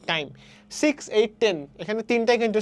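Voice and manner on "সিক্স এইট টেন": সিক্স, এইট, টেন as equal beats; equal stress. Shown as a demonstration. Teacher showing equally important words, সিক্স, এইট, টেন evenly stressed. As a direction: give সিক্স, এইট, টেন the same weight. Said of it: "সমান গুরুত্বতে উচ্চারণ করা হচ্ছে".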